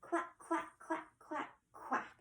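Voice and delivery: playful duck quacking; duck quacks. Shown as a demonstration. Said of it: "One more time".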